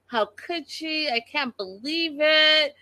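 high, wailing mockery of a sobbing wife; imitating the betrayed wife in a shrill, high wail; mock crying wail. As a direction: whine it way up like a hammed-up meltdown. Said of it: "this whole thing that she was doing".

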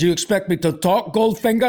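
lightly imitated film spy, pitch climbing at the end; hint of a movie hero impression; Sean Connery. Captive spy questioning his captor, lightly imitated. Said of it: "Sean Connery is laying spread eagle".

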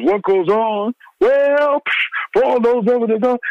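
high mock promo shout; imitating the promo. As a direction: fire off the promo line like a hype man. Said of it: "Flavor's rant".

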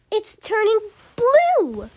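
high, drawn-out cry of alarm; storybook mother's scream. A narrator's reading. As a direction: wail it high, stretching the last word. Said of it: "screamed Missus Beauregard".

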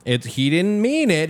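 imitated son with an English accent. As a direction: plead lightly in an English accent. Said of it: "adding an English accent to the guy".

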